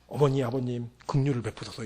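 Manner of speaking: hammed-up begging for mercy; pleading son. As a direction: beg like a child clinging to a parent's leg. Child begging parents for mercy.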